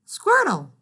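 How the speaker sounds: high, loud, delighted; girl reading a silly word aloud with delight. Acted. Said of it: "said Flora out loud".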